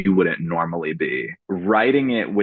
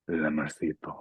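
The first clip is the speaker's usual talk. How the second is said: Latin accent; 3 semitones lower, 9 dB quieter than usual. Shown as a demonstration. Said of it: "in your best Latin accent".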